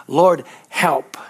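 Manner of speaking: whispered "Lord, help", mocking a feeble prayer; weak whispered plea. Preacher mimicking a timid believer's prayer, whispered. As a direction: breathe it out like a helpless plea.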